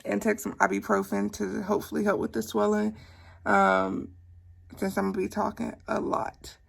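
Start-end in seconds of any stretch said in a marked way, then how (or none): 4.8-6.6 speaking around a swollen tongue; thick, clumsy tongue on every word. Real, not acted. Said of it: "you can hear now that I sound funny".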